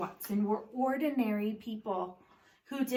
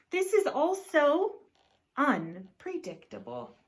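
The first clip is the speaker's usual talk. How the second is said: high, louder flustered rise; a touch of fluster; 6 semitones higher, 3 dB louder than usual. Acted. Husband unsure about milk, flustered rise.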